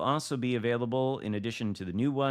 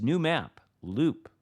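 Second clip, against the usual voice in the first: hammy stage actor; 3 semitones higher, 4 dB louder, slower than usual. Pretend. Dramatic read of map announcement.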